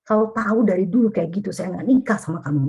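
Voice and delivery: high-pitched outburst at the spouse; angry accusation. Shown as a demonstration. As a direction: burst out at the spouse who ignores you. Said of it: "karena udah marah sekali". (istri marah kepada suami yang cuek, nada tinggi)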